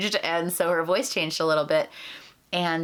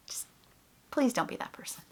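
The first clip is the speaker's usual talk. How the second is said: breathy near-whisper, softer, begging; pleading whisper; 6 semitones higher, 6 dB quieter than usual. Real, not acted. Begging fellow puppeteers not to do it, whispered. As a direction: ask it quietly, almost under your breath.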